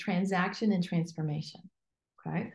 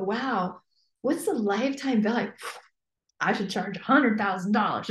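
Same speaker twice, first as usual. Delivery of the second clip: wowed realization. Retold or imitated. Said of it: "But if you go".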